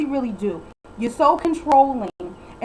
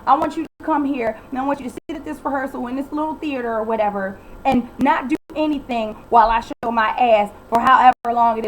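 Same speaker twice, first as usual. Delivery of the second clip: mock selfish diva. Voicing Kelly's real attitude.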